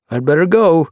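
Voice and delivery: high, mildly wistful parting; touch of wistfulness. A narrator's reading. Kittypet is called home, a touch of wistfulness. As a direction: take leave with slight reluctance. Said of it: "with a touch of wistfulness".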